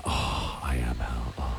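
very low, very soft menacing villain voice; hushed mock villain threat; Doom's menacing line. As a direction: growl it down low like a movie villain. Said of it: "He's like".

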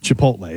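"Chipotle" as chi-POHT-lay; hard T. Shown as a demonstration. Co-host demonstrating his version, hard T. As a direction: say "Chipotle" with a clear T before the L. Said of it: "you're hitting the T hard".

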